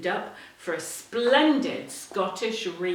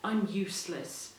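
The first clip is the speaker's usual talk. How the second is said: dejected; 4 dB quieter than usual. Acted. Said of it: "he thought".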